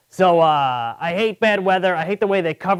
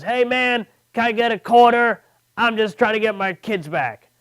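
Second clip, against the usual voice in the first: lightly imitated panhandler, pitched up; higher-pitched mock plea for spare change; begging passerby; 5 semitones higher than usual. Homeless man asking comedian for a quarter, lightly imitated pleading.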